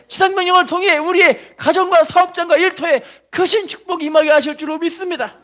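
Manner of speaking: high, loud declaration of faith; full-force preaching. Real, not acted. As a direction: drive each belief home to the congregation.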